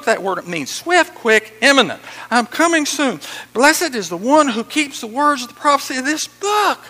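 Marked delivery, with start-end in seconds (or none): 2.3-6.8 high, loud scripture proclamation; excited shouting. Acted. Preacher voicing Jesus excited about the prophecy, shouting. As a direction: ring it out with excitement. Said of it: "he just shouting. He's excited about this".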